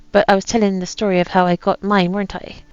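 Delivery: put-on light pirate accent reading a captain's journal; lightly voiced pirate accent, a gruff old sea captain. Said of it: "you don't have to put up this accent anymore".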